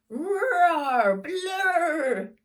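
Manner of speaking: loud high honking bagpipe blasts; very loud, high wailing bagpipe noise; bagpipe blare. Acted. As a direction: blare like broken pipes. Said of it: "like a rickety car horn".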